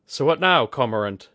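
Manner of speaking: put-on a gruff, cocky older woman weighing weapons; Kudaka's rough voice.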